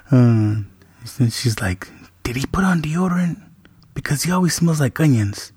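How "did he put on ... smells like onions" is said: whispered teasing sister. Retold or imitated. Daughter teasing retold.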